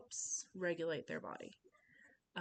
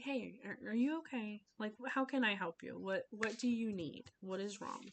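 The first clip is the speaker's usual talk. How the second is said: gentle concern; 3 semitones higher than usual. Shown as a demonstration. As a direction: check kindly on an upset child. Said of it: "Like, no, that's, that's not gonna work".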